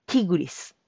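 ティグリス with a clear ti, not chi; ティグリス with a crisp ti; Ti sound. Shown as a demonstration. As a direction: say ティグリス starting with ti. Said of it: "チじゃなくて、ティ".

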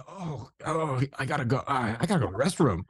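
mock-groaning urgent excuse; playing up urgency. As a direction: put on a half-hearted groan of needing to go. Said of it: "And really play it up too".

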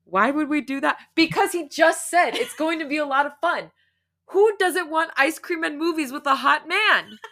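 high, loud, laughing disbelief; cracking up at the story; laughing reaction. Real, not acted. Reader laughing at the hot man line.

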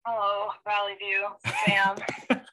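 muffled phone line; underwater. Real, not acted. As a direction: sounds like through a phone. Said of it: "she sounds like she's underwater".

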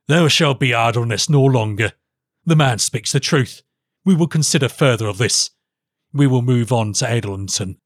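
firm royal pronouncement; lightly voiced commanding monarch; decisive king. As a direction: declare it as a ruler to his court. King gives his decision.

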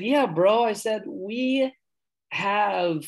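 excited. Retold or imitated. Excited retelling of his reply.

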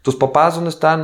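high, casual voice of a prying aunt; udawana swoboda, wypytywanie. Retold or imitated. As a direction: imitate an aunt casually fishing for information. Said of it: "así como que sacando mi información".

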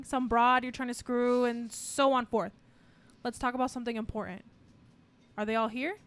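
calm composed boss. Acted. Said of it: "Alec Baldwin is calm right now".

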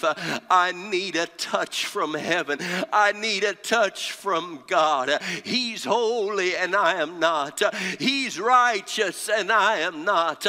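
impassioned pulpit preaching with punched key words. Real, not acted. Preacher telling the congregation of Isaiah's vision, impassioned preaching. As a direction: preach it hard, phrase by phrase.

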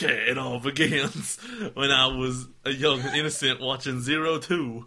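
reading in a drifting fake French accent; accidental French accent while reading; mock French accent. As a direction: slip into a hammed-up French lilt. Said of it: "You're French there!".

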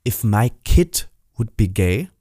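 slow, low menacing mock voice; voicing the stranger. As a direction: drag out the threat coldly. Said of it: "sagt der".

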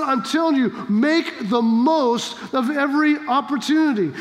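emphatic instruction, no option given; firm command. Acted. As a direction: make the most, landed as an order. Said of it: "This is a command".

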